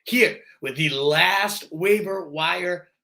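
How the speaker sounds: slightly hoarse from a cold; losing his voice, push through it. Real, not acted. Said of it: "I'm losing my voice a little bit".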